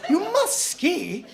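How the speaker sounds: high plummy insistence, last one slowed right down; a hammed-up toff pressing the point; posh snob. Comic's posh snob insists to a stranger in a high plummy voice.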